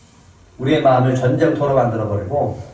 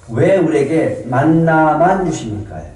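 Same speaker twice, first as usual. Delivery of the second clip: greedy whine; 3 semitones higher, slower than usual. Retold or imitated. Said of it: "탐욕이 뭐라고요".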